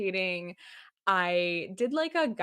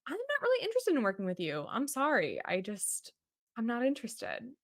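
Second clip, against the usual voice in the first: high, fast, apologetic brush-off; polite refusal; 4 semitones higher, 3 dB quieter than usual. Retold or imitated. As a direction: turn him down quickly, pitched up. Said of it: "But I said to him".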